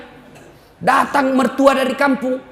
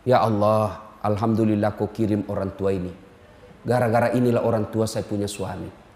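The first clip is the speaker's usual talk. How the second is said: mock pious prayer; 13 semitones lower, 6 dB quieter than usual. Preacher voicing a wife thanking God for her mother-in-law, hushed mock devotion. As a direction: lower and softer, a hammed-up humble prayer.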